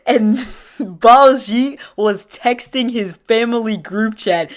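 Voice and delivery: slow, broken up by laughter; laughing while talking. Real, not acted. Storyteller reaching the group chat part, cracking up. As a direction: struggle to get it out through laughs.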